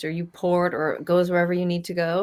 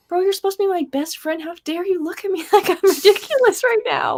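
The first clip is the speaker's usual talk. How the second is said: higher, half-laughing mock outrage at the dog; mock offended owner; 9 semitones higher than usual. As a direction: play up the hurt feelings, laughing. Scolding his dog in story.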